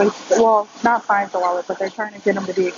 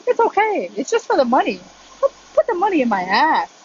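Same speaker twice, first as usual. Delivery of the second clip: higher-pitched sing-song mock soothing; mock reassurance; 5 semitones higher than usual. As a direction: imitate a silly pleading player, pitch swooping up. Retelling a player's pleading, absurd line.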